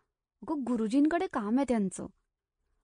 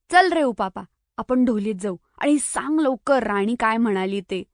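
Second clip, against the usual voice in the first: louder, mildly annoyed urging; a bit cross; 3 dB louder than usual. Acted. Sai crossly urges Upapa to tell what Rani said. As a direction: hurry him along, a little irritated. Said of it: "जरा रागातच म्हटलं".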